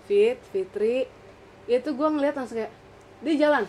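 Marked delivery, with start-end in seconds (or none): 0.0-1.1 drawn-out, very slow ghostly call; slow eerie calling. Retold or imitated. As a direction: stretch each syllable like a haunting. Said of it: "dia manggil nama gua".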